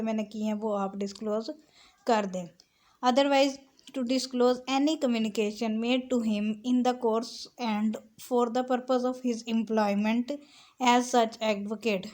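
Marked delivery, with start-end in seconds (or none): 3.0-12.1 slow, deliberate dictation of legal text; measured recital of a legal clause; slow statute reading. Shown as a demonstration. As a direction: read the law out word by word, very slowly. Reads statute text aloud.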